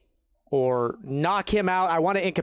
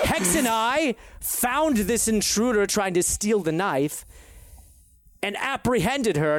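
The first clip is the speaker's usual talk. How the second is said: lightly voiced Verdon Kemble; 5 semitones higher than usual. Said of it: "perfect Verdon Kemble accent".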